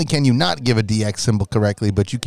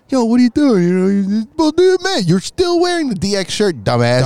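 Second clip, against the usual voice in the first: mock Michaels yelling; 10 semitones higher than usual. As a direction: scold him like a stunned buddy. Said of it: "Shawn Michaels gets out, sees he's wearing it".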